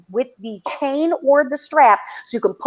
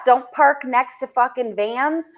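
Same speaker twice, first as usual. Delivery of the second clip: slow warning; 3 semitones higher, slower than usual. Shown as a demonstration. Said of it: "safety rules".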